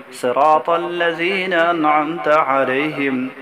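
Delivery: slow measured chant of Sura Fatiha; slow melodic Quranic recitation. Shown as a demonstration. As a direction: recite the whole sura slowly and reverently. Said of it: "میں پوری سورت دہرا لیتا ہوں".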